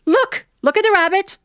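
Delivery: high, bright-eyed teacher marveling. Retold or imitated. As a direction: show the kids the rabbit with a high wonder voice. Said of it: "she'd go".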